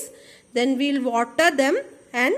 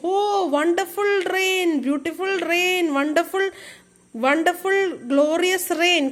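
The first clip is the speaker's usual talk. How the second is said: joyful cry; 3 semitones higher than usual. Acted. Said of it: "cried everybody".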